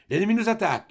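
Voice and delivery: cried out high and loud as the officer calls the alarm; officer's shout. Retold or imitated. Galloping officer shouting to the troops, loud cry. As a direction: sound the alarm from horseback. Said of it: "nous criait".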